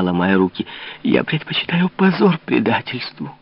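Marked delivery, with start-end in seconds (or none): 1.0-3.3 high, earnest pleading; earnest plea. A narrator's reading. Louise, kneeling, pleading her honesty to the king. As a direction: plead with full conviction.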